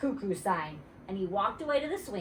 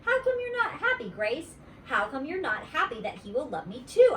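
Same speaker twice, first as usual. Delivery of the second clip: put-on whiny little girl; 6 semitones higher, 3 dB louder than usual. Junie B asking.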